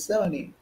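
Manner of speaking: "seventy" with no T sound; American "seventy", silent T. Shown as a demonstration. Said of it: "American is seventy".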